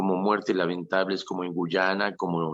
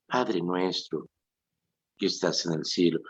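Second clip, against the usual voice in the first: simple trusting prayer; 2 semitones lower than usual. Shown as a demonstration. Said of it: "a decir con confianza".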